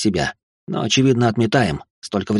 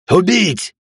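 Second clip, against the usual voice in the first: high, raised demon war cry; savage command; 9 semitones higher, 4 dB louder than usual. A narrator's reading. Demons turning on their summoner, savage shout. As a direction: cry it out as an attack order.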